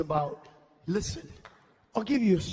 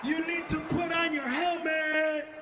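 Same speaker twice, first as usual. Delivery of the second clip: mock kid voice; 4 semitones higher, slower than usual. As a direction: gush like a thrilled kid. Voicing disabled kid, teasing.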